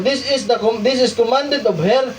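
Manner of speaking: reads the highlighted English passage aloud; preacher reading scripture notes aloud. Shown as a demonstration. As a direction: read the quoted text out to the congregation. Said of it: "Sabi niya dito".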